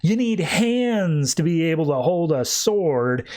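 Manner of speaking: mock scoff, slow and drawn out; lightly acted taunt. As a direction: imitate a slow, scornful put-down. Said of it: "they scoff and say".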